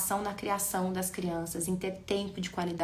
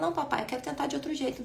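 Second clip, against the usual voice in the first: put-on child's voice; 6 semitones higher, faster than usual. Shown as a demonstration. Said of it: "Ele fala".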